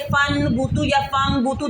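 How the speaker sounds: फन बूतू with N, then फम बूतू with M, nasal held; wrong mixed noon-meem. Shown as a demonstration. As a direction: blur N and M in फन बूतू या फम बूतू. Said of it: "दोनों आवाज़ें mix निकालें".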